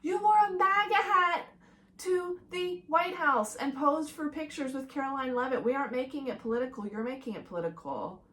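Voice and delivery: outraged reply to the Hughes brothers; exasperated retort. Acted. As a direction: fire it back at the players. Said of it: "It's like".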